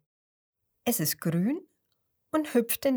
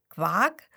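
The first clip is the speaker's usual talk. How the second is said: German frog croak; 3 dB louder than usual. Shown as a demonstration. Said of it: "quaken die Frösche nicht Quak".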